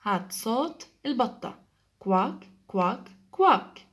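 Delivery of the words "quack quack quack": duck sound. Shown as a demonstration. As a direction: imitate the duck for the class. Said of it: "This is the sound of the duck".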